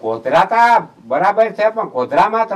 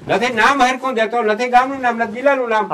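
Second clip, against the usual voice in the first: higher-pitched indignant griping; irritated, raised-pitch rant; exasperated complaint; 4 semitones higher than usual. Real, not acted. Complaining caller gave no proper details.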